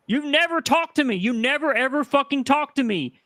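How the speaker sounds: rising, pleading frustration; upset. Real, not acted. Confronting the streamer who refused to talk, upset and rising. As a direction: press every never, hurt and angry. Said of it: "Do you hear how upset she is?".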